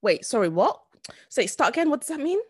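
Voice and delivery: confused questions, tune rising high; retold interrupting girl. Imitating a uni friend asking for repeats, puzzled. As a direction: lightly imitate someone lost mid-conversation. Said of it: "a girl who would say".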